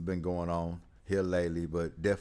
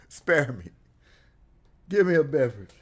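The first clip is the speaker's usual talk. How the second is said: hammed-up gasping plea, higher and louder; mock out of breath; 7 semitones higher, 6 dB louder than usual. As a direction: play it like you ran a mile, pleading for a drink. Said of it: "I'm out of breath".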